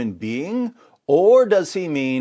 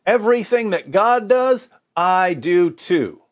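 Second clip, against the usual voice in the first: mock prophet claim; 5 semitones higher, 4 dB louder than usual. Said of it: "what mere prophet would say".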